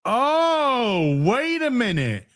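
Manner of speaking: high, drawn-out dawning surprise; hammed-up sudden suspicion; mock realisation. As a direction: act as if it just clicked. Feigned sudden realisation of conspiracy.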